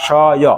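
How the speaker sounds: শয় drawn out as "sho-yo"; merged pronunciation. Shown as a demonstration. Teacher confirming the joined form for learners, merged pronunciation. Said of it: "এটাকে আমরা উচ্চারণ করব".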